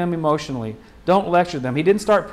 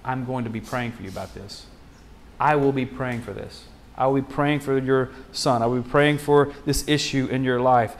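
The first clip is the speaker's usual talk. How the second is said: bold promise; 4 semitones lower than usual. Shown as a demonstration. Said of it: "Boldly say".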